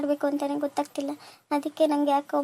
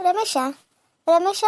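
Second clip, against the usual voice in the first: calling out; 3 semitones higher than usual. Acted. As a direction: call the name with a rising tune. Calling son from another room. (ಏರು ದನಿಯಲ್ಲಿ ಕರೆಯುವುದು)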